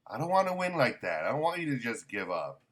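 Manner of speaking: mock indignant Gon. Gon refusing a handed-over win, hammed-up indignant. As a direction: blurt it out like an insulted kid. Gon protesting Hanzo's surrender.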